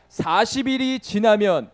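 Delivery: slow, loud, drawn-out scripture reading; prophet's proclamation, read out to a crowd; proclaiming scripture. Acted. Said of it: "이렇게 외칩니다".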